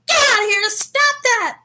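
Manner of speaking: high, loud imitated protest; crowd shouting. Onlookers to the woman cursing everybody, high shouted imitation. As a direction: shout them down like an angry crowd. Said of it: "they're like".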